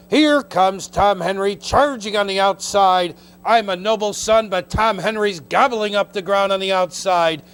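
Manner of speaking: race caller. Real, not acted. Race call stretch run.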